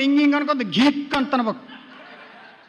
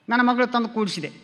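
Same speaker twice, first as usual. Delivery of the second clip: normal talking voice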